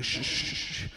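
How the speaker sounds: urgent breathy shushing; quiet her down fast; hushing. Retold or imitated. Shushing fiancée so neighbours don't hear, hushed.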